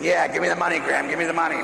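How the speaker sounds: hammed-up greedy grandchild; kids' real thought. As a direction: blurt out the secret greedy wish. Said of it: "But they're really saying".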